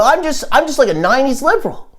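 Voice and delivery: high-pitched mock imitation; mocking quote. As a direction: mimic them way up high. Mocks people, repeated high take.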